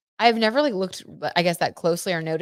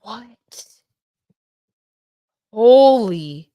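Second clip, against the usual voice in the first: shocked; 5 semitones higher, 11 dB louder, much slower than usual. Real, not acted. Shocked by the card drawn.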